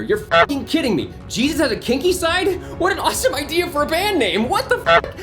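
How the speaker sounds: put-on squealing high-pitched anime girl outburst; high cute anime girl. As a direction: shriek it like an excitable anime girl. Voicing an outraged character.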